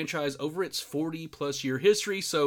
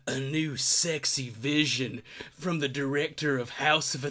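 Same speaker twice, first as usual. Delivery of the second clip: trailer voice. Pretend. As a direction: read it like a movie trailer, laughing in places. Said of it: "my trailer voice".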